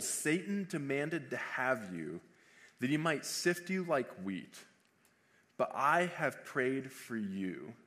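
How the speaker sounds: slow, measured Bible reading; solemnly paced scripture, phrase by phrase. Acted. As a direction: read the verse deliberately, pausing between phrases. Reads scripture aloud.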